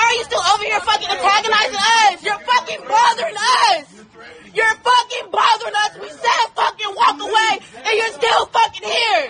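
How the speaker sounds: yelling him off, every word hammered; real angry shouting at a stranger; furious shout. Real, not acted. Protester to a lingering man, furious shout. Street argument, telling man to leave.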